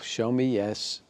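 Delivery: slow and drawn out; slow demo request; slow command. Shown as a demonstration. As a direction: ask slowly. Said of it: "And then say".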